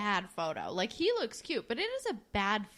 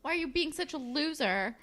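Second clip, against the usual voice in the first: high-pitched imitated needling; mock provoking; 6 semitones higher than usual. Girl provokes him until he gets mad, mock needling. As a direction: goad him with a pitched-up question. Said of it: "she starts provoking him and is like".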